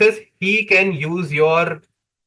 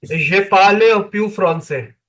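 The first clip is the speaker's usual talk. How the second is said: halting beginner French, Indian accent; broken French; 2 semitones higher than usual. Real, not acted. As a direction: speak French like a beginner, simply. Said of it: "comme un bébé".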